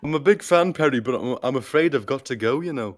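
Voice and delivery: light Liverpool lilt, unhurried; lightly voiced singer saying goodbye; impression of a famous singer. As the singer leaving to tour the country, light Liverpool. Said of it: "it's a good impression".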